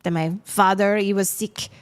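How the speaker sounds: put-on light French-Canadian accent; mild French accent for the woodsman. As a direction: voice Pacifique with a hint of French. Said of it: "I haven't had to do a French accent since".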